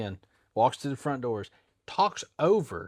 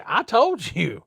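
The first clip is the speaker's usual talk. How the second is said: sharp, loud, higher no; retold refusal; 8 semitones higher, 7 dB louder, much slower than usual. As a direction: shut him down hard. Jimmy refusing returning customer.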